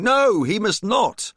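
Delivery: slow, loud, high protest; man shouting. A narrator's reading. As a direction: shout it out in alarm. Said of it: "a man shouting".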